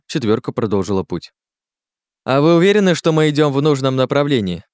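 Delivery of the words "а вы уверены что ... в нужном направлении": high, louder worried query; uneasy question. Acted. Jerome glances round the ravine, uneasy and high-pitched. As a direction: ask uneasily, pitch well up. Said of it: "беспокойно оглядываясь".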